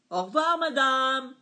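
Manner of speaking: loud, mock-polite farewell; sarcastic goodbye. A narrator's reading. Fed-up customer to the waitress, loud and sarcastic. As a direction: fling it at her.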